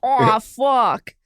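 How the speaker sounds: mock Boston shout of a shot cop; Boston cop imitation. Cohost mimics the Slide Cop video, mock Boston yell. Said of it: "Slide Cop video where he's like".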